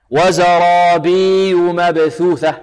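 slow chant, ي of وزرابي stretched as a long vowel; unstressed yaa, wrong. Shown as a demonstration. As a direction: drop the doubling in وزرابي, gliding bii-yu. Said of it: "لعل البعض ينطقها هكذا". (تلاوة خاطئة بلا تشديد في ياء وزرابي)

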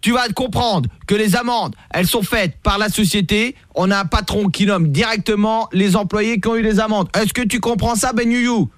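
high, hammed-up scolding; berating cop. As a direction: hammer the name like a bullying cop. Fake cop berating prank victim.

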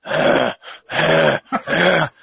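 imitated rhythmic grunts; grunting. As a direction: grunt it out like straining. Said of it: "I hear this grunting behind me".

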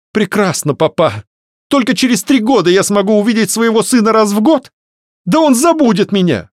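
high, loud, bitter protest; indignant young woman. A narrator's reading. Varya protests to her papa about seeing her son, high and indignant. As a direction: throw it at her father in outrage.

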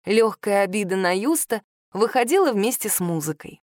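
ordinary delivery, nothing marked

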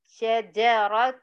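شجرة slowly, syllable by syllable, with clear sh and j; careful shin and jim. Shown as a demonstration. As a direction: separate the sh and the j in شجرة. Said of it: "وننتبه للشين والجيم".

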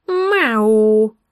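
низкое утробное «мяу», будто из живота; неуклюжее мяуканье, как у человека, изображающего кошку. A narrator's reading. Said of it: "раздался утробный звук". (утробное кошачье «мяу»)

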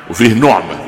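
نعمه said with u, nuʕma; damma reading. Shown as a demonstration. Sheikh ends the vowel set for students: نعمه as nuʕma. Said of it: "غير النعمه بالضم".

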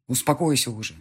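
a hint of a husband announcing a hard decision; husband tells wife he will leave; husband Marat. Husband decides.

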